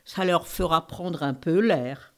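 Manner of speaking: put-on queen with an Eastern accent. The queen answers the king in an Eastern accent. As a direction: speak French with a light Eastern European accent. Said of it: "Vous avez un bel accent de l'Est".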